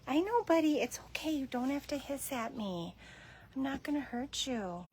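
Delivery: soft, hushed reassurance; calm a scared cat down; soothing the cat. Real, not acted. Shelter worker soothing a hissing cat, soft and hushed.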